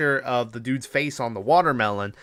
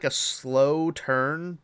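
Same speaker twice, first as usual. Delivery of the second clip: slow-motion delivery, lingering on each word; illustratively dragged out; drawn-out slow; much slower than usual. Retold or imitated. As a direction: stretch the words to mimic the motion. Drags words to mimic slow turn.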